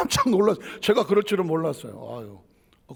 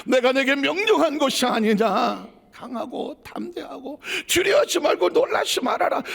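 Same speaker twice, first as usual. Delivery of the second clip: voice of God; 6 semitones higher than usual. Acted. God commanding Joshua, quoted.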